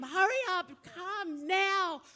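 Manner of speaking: high, pleading calls that fade on run; urging husband across the terminal, high calling out; urgent calling out. Retold or imitated. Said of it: "I'm just shouting at him".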